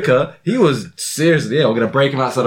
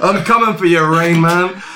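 Batman voice; 5 semitones higher, 3 dB louder than usual. Retold or imitated. Voicing Batman in a story.

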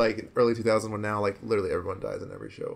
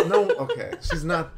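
real laugh through a high denial; amused, high-pitched objection; laughing protest; 6 semitones higher, 3 dB louder, slower than usual. Real, not acted. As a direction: deny it while laughing, pitched up. Protesting while laughing at friends.

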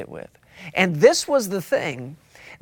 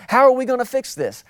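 higher, faster anxious asking; worried question; 5 semitones higher, faster than usual. Pretend. Preacher voicing a panicked member, higher and faster. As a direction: rush it out like a fretting believer.

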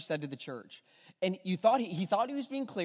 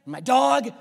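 rattled-off answer; 7 semitones higher, 10 dB louder, slower than usual. Retold or imitated. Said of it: "I'm gonna think you're crazy".

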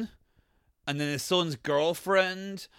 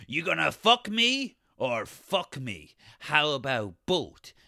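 mock seductive; slower than usual. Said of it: "he's like".

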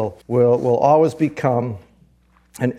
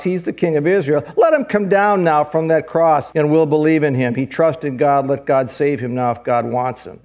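mocking elders; 2 semitones higher than usual. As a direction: jeer from beneath the cross, pitched up at first. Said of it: "the elders mocked him".

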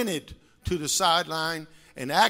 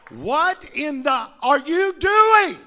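imitating an angry dad's yell, louder; 8 semitones higher, 9 dB louder than usual. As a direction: barks like a furious father on the field. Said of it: "He shakes my helmet".

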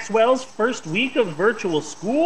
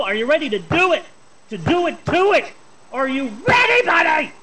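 hyped host. Acted. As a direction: pump up the crowd, climbing. Hype host intro build-up.

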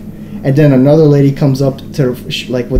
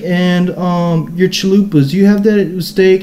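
drawn-out, higher mock customer; show-off customer; 5 semitones higher, slower than usual. Beanie kid performs his order for the line, showing off. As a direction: imitate a showy order, pitched up. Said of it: "he's got the fucking stage now".

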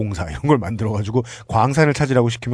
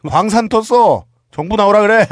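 higher, gloating boss shouting; excited shout; 8 semitones higher, 6 dB louder than usual. Retold or imitated. Acting out a mine owner.

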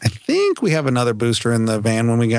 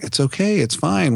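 soothing dad; 5 semitones higher than usual. Retold or imitated. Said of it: "And I'm like".

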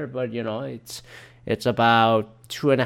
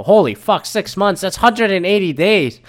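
shocked; 7 semitones higher, 6 dB louder than usual. Retold or imitated. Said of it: "And I go".

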